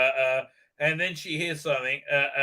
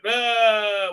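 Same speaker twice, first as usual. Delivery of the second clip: mock waking "ah", pitched up; waking-up cry; 6 semitones higher, 5 dB louder than usual. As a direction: cry out as if jolted awake. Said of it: "she wakes up".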